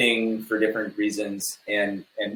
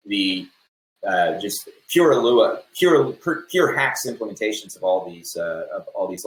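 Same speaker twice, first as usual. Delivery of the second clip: halting, stammering speech; stumbling over repeated words. Real, not acted. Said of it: "I'm kind of stammering a bit".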